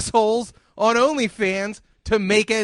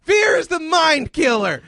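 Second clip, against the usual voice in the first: emphatic quote; 4 semitones higher, 4 dB louder than usual. Real, not acted. Quoting Dune again.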